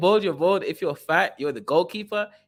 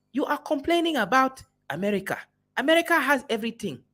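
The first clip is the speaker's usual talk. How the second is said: higher mock African accent; generic African accent; 8 semitones higher than usual. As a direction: streamer voicing what the African thinks, in a mock African accent. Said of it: "some generic African accent".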